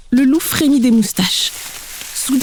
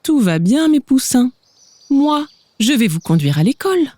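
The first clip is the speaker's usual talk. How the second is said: caressing voice; 4 semitones higher than usual. Acted. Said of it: "une voix caressante".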